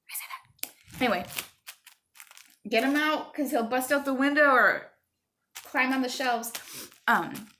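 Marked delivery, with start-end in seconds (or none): 0.1-0.7 whispered aside; soft whispered grumble; under breath. Real, not acted. Muttered aside after complaint. 2.7-6.5 higher, louder push to hurry; raised urgent mom voice; urgent instruction. Real, not acted.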